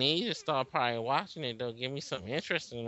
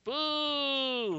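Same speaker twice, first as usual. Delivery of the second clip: booing; 11 semitones higher than usual. Real, not acted. Booing the racist movie.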